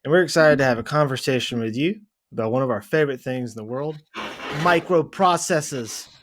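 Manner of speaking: put-on hammy Boston accent; joking Boston accent read. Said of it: "That is probably the best Boston accent".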